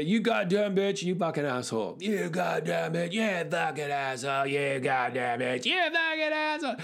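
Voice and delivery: lightly voiced drunken shouting match; half-hearted imitation of a screaming couple; mock bellowing. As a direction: chant the insults back and forth like drunks. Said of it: "which they bellow at each other".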